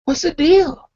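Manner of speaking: loud then very high confused what; startled what. Retold or imitated. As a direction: caught off guard, demanding an answer. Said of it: "And I'm like".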